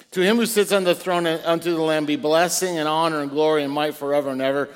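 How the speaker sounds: measured, solemn Bible reading; scripture reading. Acted. Reads doxology aloud.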